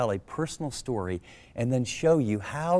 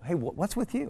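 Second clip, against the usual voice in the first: wife asking; 7 semitones higher than usual. Retold or imitated. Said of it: "and she goes".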